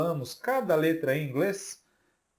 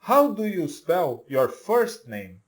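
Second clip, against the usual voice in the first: slow, clear English question for learners; slow model sentence; 4 dB louder, slower than usual. Shown as a demonstration. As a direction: say it slowly so they can repeat. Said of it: "Então, olha só". (pergunta modelo devagar)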